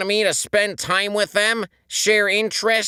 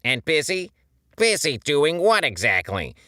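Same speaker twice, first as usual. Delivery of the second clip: mounting rage; 6 semitones higher, 4 dB louder than usual. A narrator's reading. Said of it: "his mounting rage".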